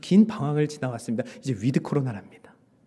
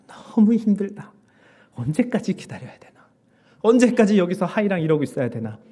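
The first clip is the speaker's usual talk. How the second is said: weary complaint, building louder; 3 semitones higher, 3 dB louder than usual. Retold or imitated. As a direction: grumble about an endless wait. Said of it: "제 입에서 불평이 나오더라고요". (지친 듯 점점 커지는 불평)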